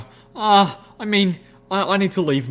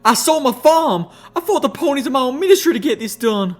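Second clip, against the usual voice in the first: raging shout; 13 semitones higher, 7 dB louder than usual. A narrator's reading. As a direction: hammer out I sold my farm. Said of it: "Applejack raged".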